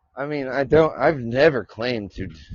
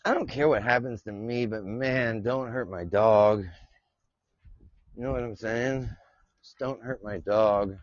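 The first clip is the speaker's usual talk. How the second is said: pleading softly; 4 semitones lower, 5 dB quieter than usual. Real, not acted. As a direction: beg quietly for your dog. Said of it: "he could be listening".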